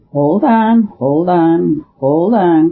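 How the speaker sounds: a priest suddenly gripped by an idea, calling out; rising cry to stop his friend, then settling; urgent cry. A narrator's reading. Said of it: "cried Brown".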